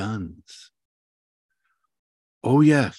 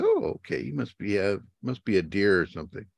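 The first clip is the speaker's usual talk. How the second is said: mock tiger shark; faster than usual. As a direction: act a dim shark fooled by a tattoo. Voicing the tiger shark's thought.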